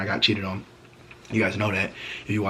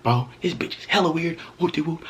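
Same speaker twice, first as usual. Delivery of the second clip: higher put-on grumble; mock ranting voice; 7 semitones higher than usual. At the gym fuming about the girl, in a put-on higher voice. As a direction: vent in a silly voice. Retold inner rant, voice changed.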